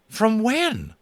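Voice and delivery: high, loud startled cowboy. Acted. Boone startled at the answer, high cowboy yelp. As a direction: yelp it like a scared prospector.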